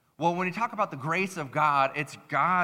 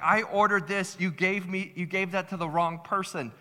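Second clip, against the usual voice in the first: mildly heated mock argument; retold indignant back-and-forth in a higher voice; getting so mad; 5 semitones higher than usual. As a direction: imitate bickering customers, pitched up. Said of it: "they were, like, getting so mad".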